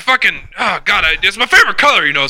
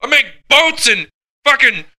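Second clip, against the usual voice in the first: indignant retort; 5 semitones higher than usual. Retold or imitated. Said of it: "and I'm like".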